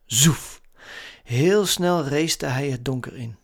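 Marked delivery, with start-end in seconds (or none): 0.1-0.6 luid 'zoef' als wegscheurend autootje; zoef-geluid. A narrator's reading. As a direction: boots het wegschieten na. Narrator imitates car racing off. (zoevend geluid)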